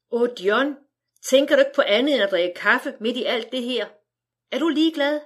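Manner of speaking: mildly outraged wife, climbing to a high Er du ligeglad; upset protest. Acted. Wife upbraiding her husband for wanting coffee, rising in pitch.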